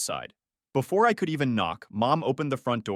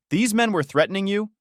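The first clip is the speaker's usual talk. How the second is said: higher-pitched, direct official question; sharp and direct; 7 semitones higher, 3 dB louder than usual. A narrator's reading. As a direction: question them briskly, like an officer. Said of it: "sharp and direct".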